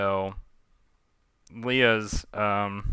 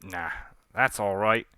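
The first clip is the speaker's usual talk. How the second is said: shaky attempt at Cockney, slipping toward Australian; Cockney captain; 4 dB quieter than usual. Leah refusing to free Pontou, Cockney relish. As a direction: refuse coolly in a loose Cockney accent. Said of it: "I'm trying to do Cockney accent".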